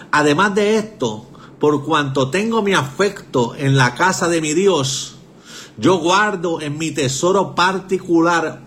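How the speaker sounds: slow, deliberate Bible reading; scripture reading. Acted. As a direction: read each phrase of the verse slowly and solemnly. Reads Bible verse aloud.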